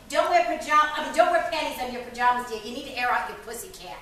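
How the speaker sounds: loud, insistent motherly instruction; mother's advice. Acted. Mother advising her daughter about bedtime, loudly insistent. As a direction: lay it down like a mother. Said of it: "her mother used to tell her".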